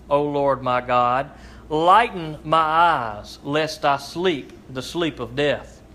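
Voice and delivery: slow, solemn psalm reading; scripture reading. Acted. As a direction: read the psalm to the congregation, unhurried. Reads psalm aloud in service.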